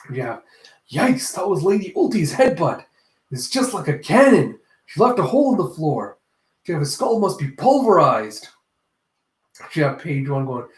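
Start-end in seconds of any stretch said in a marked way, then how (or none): 0.9-8.5 mock awed alarm. Onlookers awed by headbutt.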